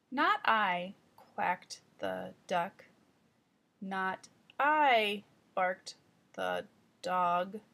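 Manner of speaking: careful storybook reading, one line at a time; beginning reader slowly reading out the farm animals' replies; slow child read-aloud. Shown as a demonstration. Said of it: "And one more, section nine B".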